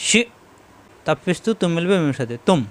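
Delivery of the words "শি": "শি" cut short by a glottal stop; hard hamza stop. Shown as a demonstration. Teacher demonstrates hamza, "শি" with hard glottal stop. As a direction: shut "শি" off hard in the throat. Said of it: "হামজায় সাকিন শক্ত হবে".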